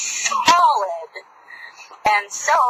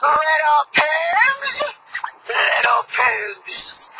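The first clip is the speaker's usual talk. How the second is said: wolf calling; 2 semitones higher, much slower than usual. Acted. Wolf calls slowly.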